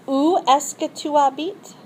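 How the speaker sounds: Où est-ce que tu habites? lifted on Où; rising question. Shown as a demonstration. Teacher modelling a French question with a rise. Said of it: "So we have".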